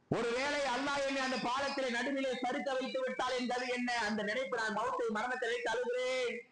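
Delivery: high-pitched pleading, imitating a weeping man; retold tearful plea. Companion pleads to Allah about the bridge, retold anguished plea. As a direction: act out an anguished prayer, without real sobs. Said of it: "என்று சொல்லி அவர் அழுதார்".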